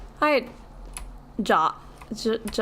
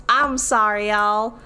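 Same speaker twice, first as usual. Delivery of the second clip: put-on Southern Belle accent; 5 semitones higher than usual. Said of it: "a simple and sweet Southern Belle".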